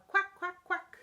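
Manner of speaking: high, loud little quacks; happy duckling quack. Acted. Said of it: "When I'm feeling happy, I say".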